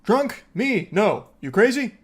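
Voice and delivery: imitating a tipsy woman acting offended, pitch up; hammed-up indignant sober act; mock drunk denial. Narrator mocking the caller's denial, mock indignant. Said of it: "putting on a strong show of sobriety".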